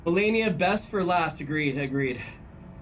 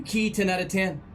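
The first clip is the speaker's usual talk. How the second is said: southern accent. Real, not acted. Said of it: "why did I say that with a southern accent".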